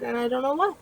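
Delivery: words stretched by a real yawn. Real, not acted. Tired vlogger yawns mid-sentence, real yawn. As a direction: yawn right through the words. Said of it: "Sorry for that yawn".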